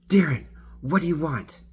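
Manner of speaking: tipsy passenger offering the driver a drink; animated offer. Retold or imitated. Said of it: "she's talking like this, very animated".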